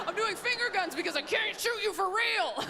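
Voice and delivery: a spouse joking at a dinner party, laughing; laughing through it. Retold or imitated. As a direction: joke while meaning it. Passive-aggressive joke at party.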